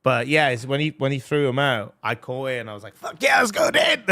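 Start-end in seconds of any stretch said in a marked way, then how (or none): 2.9-4.0 loud, high, laughing yell of triumph; excited yell. Retold or imitated. Fan shouting after catching the drummer's stick, hyped and laughing. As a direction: shout it like you just caught the stick.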